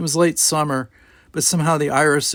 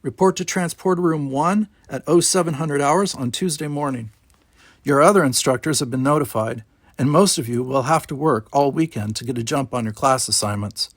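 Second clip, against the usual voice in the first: lieutenant briefing cadets; 3 semitones higher than usual. Acted. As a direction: hand out orders to the class.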